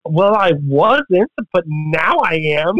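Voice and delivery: slow, drawn-out deadpan reply; dry deadpan. Retold or imitated. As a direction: let it land slowly, a beat of dread. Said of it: "And I was like".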